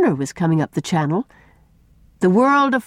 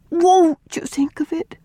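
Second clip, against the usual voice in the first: higher, slow imploring plea; 11 semitones higher, slower than usual. A narrator's reading. Una implores Miss Cornelia to reconsider, imploring. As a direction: plead gently, drawing it out. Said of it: "implored Una".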